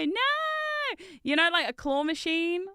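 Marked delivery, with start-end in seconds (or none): 0.0-1.0 startled no. Real, not acted. Correcting herself.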